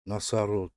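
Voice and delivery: ناساروگ said as Russian "nosorog", each syllable clear; ناساروگ in a teacher's demonstration voice; Russian word. Shown as a demonstration. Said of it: "مثل ناساروگ".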